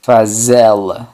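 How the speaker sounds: Fazê-la as fa-ZE-la, stressed ê, slowly; Portuguese answer. Shown as a demonstration. Teacher answers own drill question, slow model answer. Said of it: "¿Y cómo sería entonces hacerla?".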